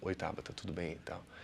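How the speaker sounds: flat, deflated, listless, very quiet and low. Greeting Tabata, unenthusiastic, low energy. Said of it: "Como é que eu vou falar aqui desanimado?".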